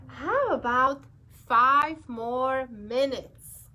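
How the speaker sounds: pushy little bird haggling for time, slow on the ask; pigeon bargaining. Acted. Pigeon character voice.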